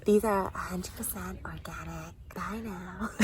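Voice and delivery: hushed mock vlogger pitch; imitating friend's vlogging. Imitating her friend's organic product pitch, hushed parody. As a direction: breathe it softly like a parody vlogger. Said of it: "I'm gonna do you so perfectly".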